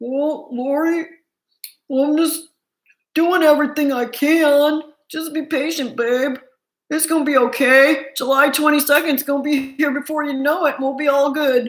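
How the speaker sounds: easygoing voice, can stressed and drawn long. Doing an impression of Chad reassuring Lori: Chad impression. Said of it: "I like making the Chad impression".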